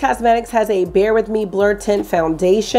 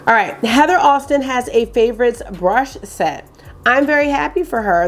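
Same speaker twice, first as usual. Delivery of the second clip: YouTuber voice; 4 semitones higher than usual. Acted. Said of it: "I guess I'm doing a YouTuber voice".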